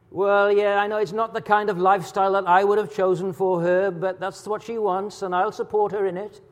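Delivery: a touch of a parent rationalising; excusing parent. Retold or imitated. Preacher imitating a parent justifying supporting their daughter, lightly voiced. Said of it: "It's the kind of thing we'd say".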